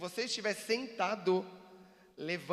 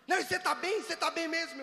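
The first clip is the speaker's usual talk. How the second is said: much higher, louder wife greeting; imitating loud wife; 12 semitones higher, 8 dB louder, faster than usual. Husband imitating his loud-talking wife Cibele, high and loud. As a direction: play the wife who always talks loud, calling out high. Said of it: "ela fala alto".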